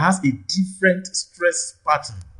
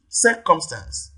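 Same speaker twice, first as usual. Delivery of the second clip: circumstance slowly, CIR raised; stress on first syllable; slower than usual. Shown as a demonstration. Teacher checks option C, circumstance stressed on CIR. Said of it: "first syllable here receives the primary stress".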